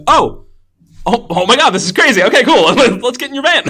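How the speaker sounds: high, loud, laughing mock glee; mock excited reaction. Friend retelling the movie scene, high laughing mock glee. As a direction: gush like nothing is strange, giggling. Acting out characters' casual reaction.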